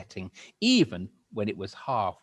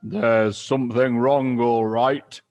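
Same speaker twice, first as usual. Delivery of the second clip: gloating Mister Twit; 13 dB louder, slower than usual. Acted. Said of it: "Mister Twit said, beginning to enjoy himself".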